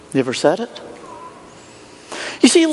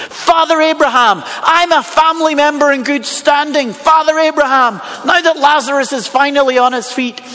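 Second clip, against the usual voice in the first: lightly voiced rich man making demands; a touch of self-important entitlement, pitched a little up; entitled rich man; 3 semitones higher than usual. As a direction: lightly play someone used to being served. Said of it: "He goes right to the top".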